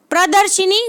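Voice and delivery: प्रदर्शिनी with a clear i after sh; wrong pronunciation. Shown as a demonstration. Teacher dismissing the wrong form, shi-ni sounded out. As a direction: end प्रदर्शिनी on shi-nee. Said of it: "कुछ नहीं होता".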